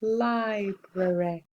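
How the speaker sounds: Library said slow with both r's; slow careful Library; spelling pronunciation. Shown as a demonstration. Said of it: "If you say it like that".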